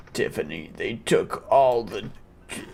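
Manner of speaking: dying father. Acted. Dying father telling his son about Tiffany, low and fading. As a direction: gasp it out with failing breath.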